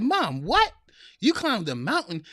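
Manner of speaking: lightly acted surprise; mock astonishment. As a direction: retell your disbelief at mom's news. Retold astonishment at mother's news.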